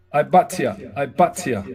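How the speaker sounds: "I but ya" sounded out as eye-BAHT-yah; careful Hebrew pronunciation. Shown as a demonstration. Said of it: "My pronunciation ain't totally great".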